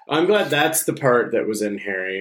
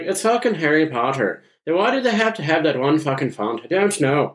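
mock Irish; 4 semitones higher than usual. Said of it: "You're like".

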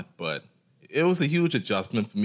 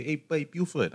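put-on African accent; 8 semitones higher than usual. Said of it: "in an African accent".

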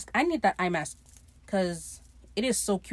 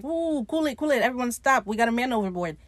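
higher-pitched call to stop; mock urgent halt; 3 semitones higher than usual. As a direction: rein in a panicking crew, lightly acted. Voices captain halting panicked crew.

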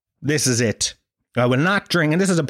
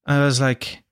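normal talking voice

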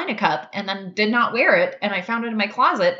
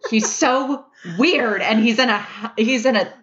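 fangirling; 3 semitones higher than usual. Real, not acted. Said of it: "I can't even form a sentence right now".

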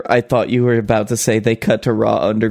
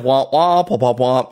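plain womp womp. Retold or imitated. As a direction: toss off the womp womp casually. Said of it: "So instead of".

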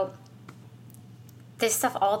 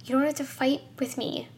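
higher-pitched, halting, heartfelt appeal; body reaching out; 5 semitones higher than usual. Acted. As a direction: plead as an ally reaching out. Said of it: "reaching its arms out to me".

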